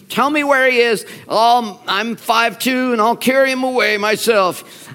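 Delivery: determined. Acted. Acts Mary's determined plea.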